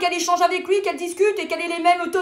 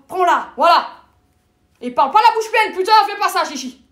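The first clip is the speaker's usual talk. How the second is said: exclamation crue; 2 semitones higher, 5 dB louder than usual. Acted. Grosse tirade crue à l'amie.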